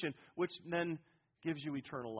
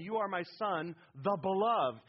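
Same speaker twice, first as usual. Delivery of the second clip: "the beloved" set apart and louder; stress on BELOVED; 3 semitones higher, 4 dB louder than usual. Shown as a demonstration. Preacher giving the literal Greek, strong emphasis on "the beloved". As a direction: build to a firm hit on "the beloved". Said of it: "has strong emphasis on beloved".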